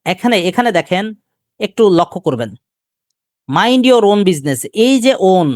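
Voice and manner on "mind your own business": slow Mind your own business with own leaned on; stress on own. Shown as a demonstration. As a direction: drag it out to show the emphasis. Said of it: "এই ওনটা কি আকারে বসছে". (own শব্দে জোর দিয়ে ধীরে বলা)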